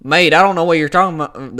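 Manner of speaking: botched impression slipping into a country accent; lightly put-on country accent. Fan botching a fighter's retort, accidental country accent. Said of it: "That was a country accent".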